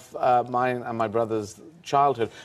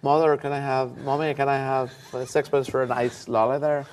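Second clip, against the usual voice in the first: put-on a young Belfast lad asking his mum for money, Belfast accent; Belfast kid accent; 2 semitones higher than usual. Son asking his mother for sixpence, light Belfast accent. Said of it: "Me and my brother sounded like this".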